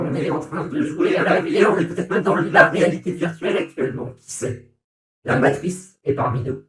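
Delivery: processed digital VR voice; virtual reality filter. Shown as a demonstration. Streamer demoing the VR filter, digital and processed. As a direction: muse that we're in the matrix. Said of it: "la voix V R".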